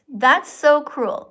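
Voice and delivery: reading a comment. Retold or imitated. Reading a viewer's comment aloud slowly. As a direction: read it out with weight. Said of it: "Barbara writes".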